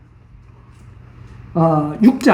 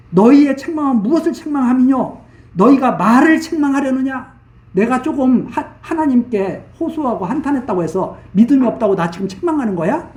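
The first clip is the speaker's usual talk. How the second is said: higher-pitched, emphatic remonstrance as Job; indignant protest; 5 semitones higher than usual. Acted. Job answering friends who doubt his faith, indignant protest. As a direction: push back at the accusers, voice raised in pitch.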